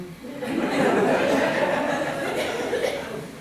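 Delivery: soft unvoiced laughter; chuckling at the memory; breathy laugh. Real, not acted. The speaker laughing at his father's mm-hmm.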